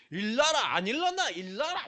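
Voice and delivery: imagined future parent with a mock Gyeongsang call; light Gyeongsang scolding wake-up; 경상도 사투리로 꾸짖듯 깨우기; Gyeongsang dialect. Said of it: "경상도 사투리".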